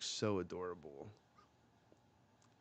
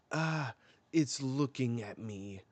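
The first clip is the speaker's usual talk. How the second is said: mock frightened shriek; 4 semitones higher, 5 dB louder than usual. Queen recoils from the child.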